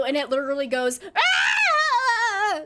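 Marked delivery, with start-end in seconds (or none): 1.2-2.6 high, loud screeching wail; banshee scream. Retold or imitated. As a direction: let out a piercing banshee shriek. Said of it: "That's my Banshee scream".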